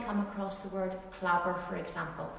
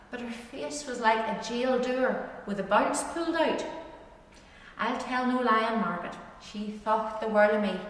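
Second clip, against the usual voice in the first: measured dialect poem reading, rhythmic; poem recitation. Acted. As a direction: recite it like a fireside rhyme. Reads a dialect poem aloud.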